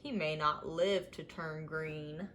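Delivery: low, soft moan of worry. Acted. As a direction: sigh it out gloomily. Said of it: "Umbles moaned".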